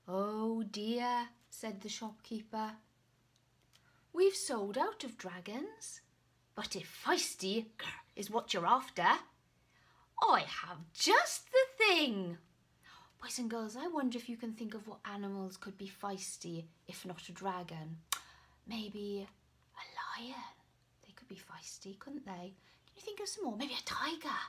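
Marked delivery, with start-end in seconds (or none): 0.1-12.4 lightly voiced shopkeeper, rising to a loud promise. Shopkeeper offering a feisty substitute, building excitement. 19.8-23.6 hushed, secret asking; whisper. Acted. Storyteller whispering questions to the children.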